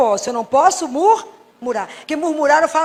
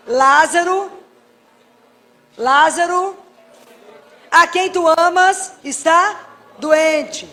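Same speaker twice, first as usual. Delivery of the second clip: louder, very slow ringing plea; slow, louder solemn plea; solemn proclamation; 3 semitones higher, 5 dB louder, much slower than usual. Acted. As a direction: call it out like an urgent message to Jesus. Quoting the message to Jesus.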